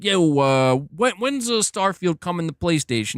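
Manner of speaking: lightly hammed-up casual bro asking a question; mock bro voice. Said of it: "he wasn't talking like that".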